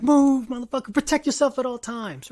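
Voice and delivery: loud, high, urgent fan yell; acted shout at a losing fighter. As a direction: holler frantic orders at a fighter. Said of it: "You yell at the T V like".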